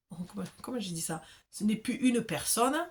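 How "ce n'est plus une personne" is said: a slight southern French lilt slipping in; southern French accent. Real, not acted. Reader catching her own southern French accent mid-sentence. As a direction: let the southern French accent creep into the vowels. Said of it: "j'ai l'impression d'avoir un peu l'accent".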